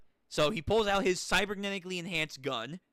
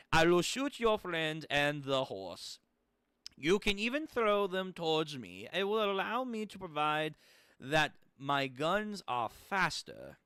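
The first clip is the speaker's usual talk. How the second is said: menacing German gunman. Acted. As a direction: order your enemy to surrender, building to the end.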